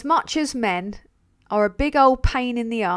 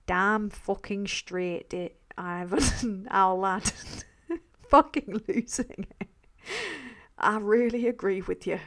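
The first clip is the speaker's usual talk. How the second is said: Darren's voice; 4 dB quieter than usual. Retold or imitated. Thanking a donor in a friend's mimicked voice, laughing. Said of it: "He always makes me talk like this".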